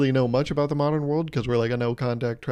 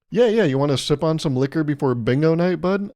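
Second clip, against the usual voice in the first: put-on old-timer offering liquor. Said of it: "older generation people".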